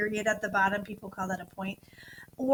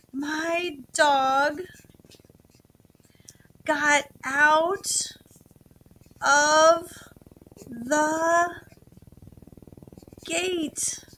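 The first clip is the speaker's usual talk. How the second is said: slow dictation; 4 semitones higher, 4 dB louder, much slower than usual. Shown as a demonstration. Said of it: "spaces between my words".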